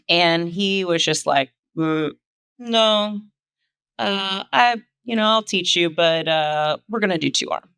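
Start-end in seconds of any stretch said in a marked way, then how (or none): 1.8-7.7 put-on awful Russian accent. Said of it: "That was my very awful Russian accent".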